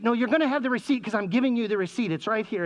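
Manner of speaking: fast imitated parent, pitched a bit up; exasperated parent. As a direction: rattle off the obvious to a fretting child. Exasperated parent answering worried child.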